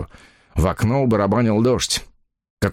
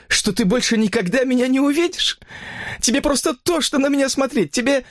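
much higher, building reproachful woman's voice; hurt woman; 13 semitones higher than usual. Acted. Mistress accusing her lover, high and hurt. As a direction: let the hurt rise.

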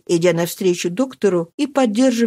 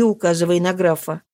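plain reading voice

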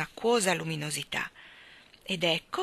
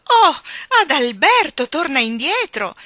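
high, loud imploring shout; desperate cry; 8 semitones higher, 11 dB louder than usual. A narrator's reading. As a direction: cry out for him to come back. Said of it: "La regina lanciò un grido".

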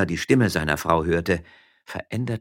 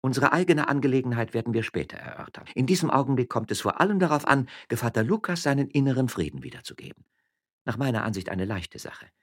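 high, composed voice; dignified lady; 7 semitones higher than usual. Acted. Magistrate's wife silencing her husband, dignified. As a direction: take command with regained dignity. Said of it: "ihre würdevolle Haltung wiedergewonnen".

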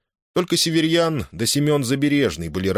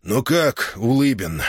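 hoarse, rough-voiced question; 3 semitones higher, slower than usual. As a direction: ask it with a rasp in the throat. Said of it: "хрипло спросил". (хриплый вопрос)

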